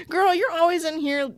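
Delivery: laughing, mocking jab; laughing catty jab. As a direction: sneer it through a laugh. Catty insult while laughing.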